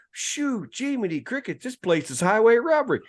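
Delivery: high, loud grumble at the menu prices; dad too loud to whisper. Retold or imitated. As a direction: complain out loud as if nobody else is in the restaurant. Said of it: "He couldn't whisper to save his life".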